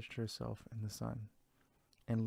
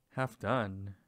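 louder, shocked disbelief; surprised; 6 dB louder than usual. Acted. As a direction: echo the name in astonishment. Mouse shocked by odd name.

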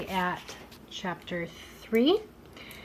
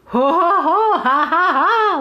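loud, high hearty ho ho ha ha; belly-laugh it out high; jay laughing with glee; 9 semitones higher, 10 dB louder, slower than usual. A narrator's reading. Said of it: "laughed Sammy Jay".

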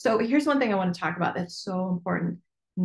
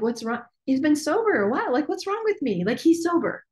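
anxious self-questioning; 8 semitones higher than usual. Retold or imitated. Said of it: "And I'm like".

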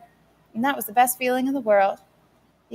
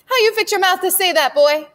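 high, loud voice breaking with hurt; mother's voice cracking as she scolds; 10 semitones higher, 5 dB louder than usual. Acted. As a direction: scold while close to tears. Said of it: "Mama's voice cracked".

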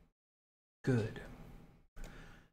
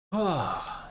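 loud, high, drawn-out "ah" sigh; 9 semitones higher, 4 dB louder than usual. Real, not acted. Streamer pausing between thanks and explanation, loud sigh. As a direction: let out a big sigh.

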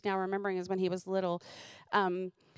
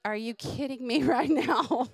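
mock outrage; 4 semitones higher, 4 dB louder than usual. Mock outrage at dirty shirt.

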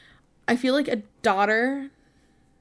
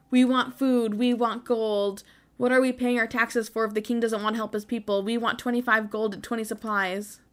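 angry crowd. Acted.

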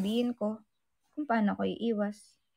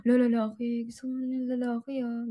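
teasing; 3 semitones higher than usual. Retold or imitated. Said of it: "asarin ko siya".

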